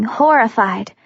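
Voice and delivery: ordinary delivery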